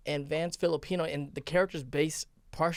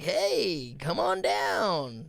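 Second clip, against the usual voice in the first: game show host voice; 3 semitones lower than usual. Retold or imitated. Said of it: "in the seventies, they were like".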